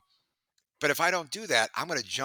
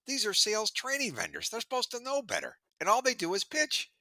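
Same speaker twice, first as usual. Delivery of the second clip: imitating VP of sales; 11 semitones higher than usual. VP of sales complaining about vendors.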